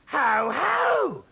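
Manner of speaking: high, loud gloating ho ho; triumphant loud exclamation; cried. Acted. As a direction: crow over catching him out. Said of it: "she cried".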